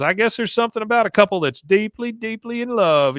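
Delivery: hammed-up lovestruck voice; mushy lovestruck. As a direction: savor the word deeply. Bill voiced, slow and high.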